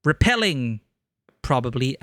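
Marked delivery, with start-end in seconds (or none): 0.0-0.8 a light voice actor British read; a formal British speechmaker; generic British accent. Shown as a demonstration. Streamer voicing a scientist's address in a British accent. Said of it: "voice actor voice".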